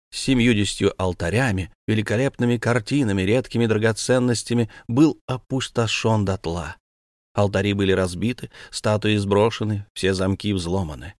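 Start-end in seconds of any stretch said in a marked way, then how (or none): none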